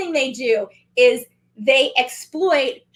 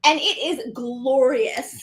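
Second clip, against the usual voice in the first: savoring; much slower than usual. Real, not acted. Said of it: "slow savoring".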